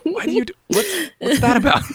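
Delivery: put-on very high squeaky child voice; mock kid voice. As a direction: squeak the question like a little kid. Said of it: "My kids always talk like this".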